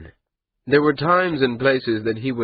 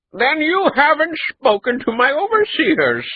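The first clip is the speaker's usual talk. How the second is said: higher and louder, laughing it off; 5 dB louder than usual. A narrator's reading. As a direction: laugh the words out. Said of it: "Radaani laughed".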